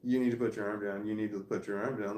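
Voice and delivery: calm, subdued instruction; imitated calm voice. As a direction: repeat the order calmly, imitating her composure. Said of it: "she was saying it in a calm voice".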